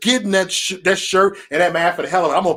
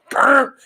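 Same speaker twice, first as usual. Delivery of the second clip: loud, higher mock burp noise; imitated burp; 9 semitones higher, 4 dB louder than usual. Imitates troll's burp on stream.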